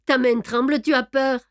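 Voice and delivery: plus haut et plus fort, moquerie agressive; greffier railleur. Acted. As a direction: narguer l'adversaire en pleine lutte. (Brédoux nargue Beautrelet pendant la bagarre)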